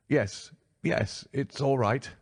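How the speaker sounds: a frightened man checking the strangers; nervous reedy man. A narrator's reading. Nervous patient voiced.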